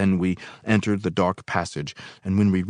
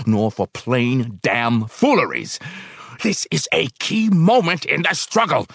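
heated; 8 semitones higher, 6 dB louder than usual. A narrator's reading. Heated rebuttal in quarrel.

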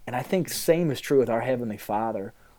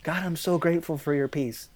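mock-pious prayer; 2 semitones higher, 5 dB quieter than usual.

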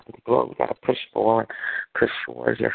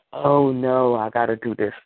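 sorry for oneself. Acted. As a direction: imitate a reluctant complainer. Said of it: "that mentality of we sorry about".

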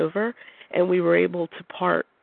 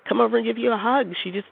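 retelling a friend's indignation, higher and quicker; a touch of outrage on his behalf; mild indignant friend; 5 semitones higher than usual. Retold or imitated. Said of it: "is indignant about this".

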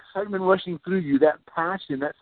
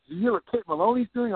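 excited gossip; 5 semitones higher, much faster than usual. Pretend. Family imagined gossiping excitedly.

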